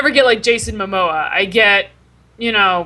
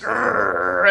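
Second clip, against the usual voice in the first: man growling; 5 semitones lower, 4 dB quieter than usual. Retold or imitated. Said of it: "it's, like, man growling".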